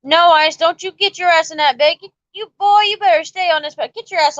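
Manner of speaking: play-scold him like a parent; pretend-stern parent calling a kid back; mock scolding. Mock-scolding a guest to join.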